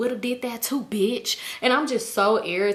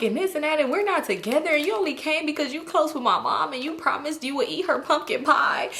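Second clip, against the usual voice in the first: put-on higher, whiny voice of a crying girlfriend; mock tearful complaint; 5 semitones higher than usual. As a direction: imitate yourself complaining through tears, pitched up. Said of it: "I'm just crying".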